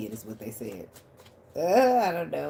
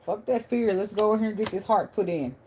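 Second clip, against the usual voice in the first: loud, higher mock pep talk; anxiety's voice; 6 semitones higher, 5 dB louder than usual. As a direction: hype yourself up as the anxiety. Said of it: "Then your anxiety like".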